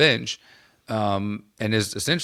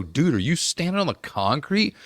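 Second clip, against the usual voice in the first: mock alarmed yell; 5 semitones higher than usual. Teammate yelling in locker room.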